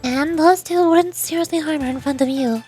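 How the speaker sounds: lightly voiced, assured strategist; understated poise while laying out a scheme; composed, calculating president. President explaining her plan to Sensei, lightly voiced composure.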